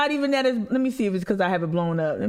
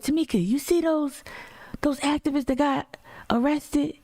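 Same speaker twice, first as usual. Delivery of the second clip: higher voice with a thick North Carolina accent, imitating mom; mom's North Carolina accent; 8 semitones higher than usual. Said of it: "North Carolina accent, real thick".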